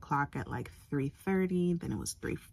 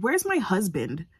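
urgent demand; 4 dB louder than usual. Retold or imitated. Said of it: "I said".

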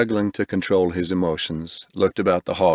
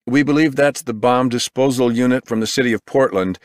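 urgent field reporter; 4 semitones higher than usual. Acted. Reporter live at scene.

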